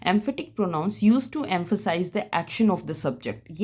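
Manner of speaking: reads the rule out slowly for notes; slow, clear English rule read to students; slow dictation read. Shown as a demonstration. Teacher reading a grammar rule aloud to the class, slow and clear.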